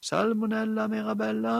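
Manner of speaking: høyt, lyst rop over huset; roper. Acted. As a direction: kall på jenta med full stemme. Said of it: "hun ropte". (mor roper på datteren fra kjøkkenet, høyt og lyst)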